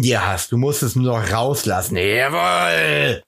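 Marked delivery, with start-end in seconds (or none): 2.0-3.2 triumphant shout. Acted. Cheering sign-off to listeners.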